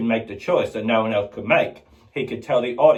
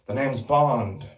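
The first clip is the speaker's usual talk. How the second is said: James Bond; slower than usual. Retold or imitated. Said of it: "the different James Bonds".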